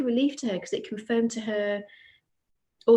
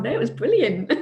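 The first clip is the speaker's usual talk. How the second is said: real laugh, louder; laughing reply, louder; 6 dB louder than usual. Real, not acted. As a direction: laugh it out reassuringly.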